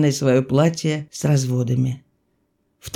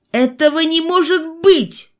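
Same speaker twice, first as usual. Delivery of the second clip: high-pitched incredulous exclamation; astonished, raised-pitch outburst; disbelief; 11 semitones higher than usual. A narrator's reading. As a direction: cry out that you can't believe it. Doctor's disbelief before yelling out.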